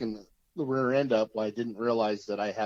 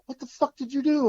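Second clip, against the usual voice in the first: imitating a panicked father, much higher and louder; panicked dad; 5 dB louder than usual. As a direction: squeal it out like a frantic dad. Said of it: "he's in a panic".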